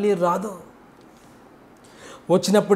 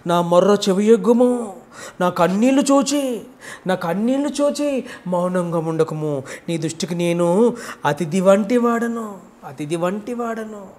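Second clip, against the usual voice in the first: tax collector pleading prayer. Acted. Penitent tax collector prays in the temple, mild pleading voice. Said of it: "రొమ్ము కొట్టుకుంటూ".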